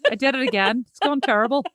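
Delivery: hammed-up, lilting Northern Irish accent. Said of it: "You sound a bit like Nadine".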